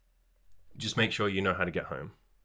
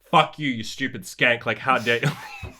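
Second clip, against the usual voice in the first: put-on slow, indignant snarl at a rejecting girl; mock outraged nice guy; 2 semitones higher, 5 dB louder, slower than usual. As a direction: spit it out like a wounded, entitled guy.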